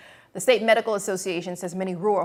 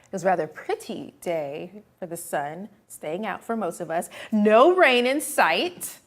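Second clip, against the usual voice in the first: posh voice. Pretend. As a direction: put on a posh English air. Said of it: "I'm gonna say with my posh voice".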